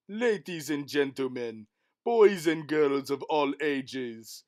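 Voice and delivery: booming showman announcer; race announcer. Acted. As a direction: announce it to the crowd.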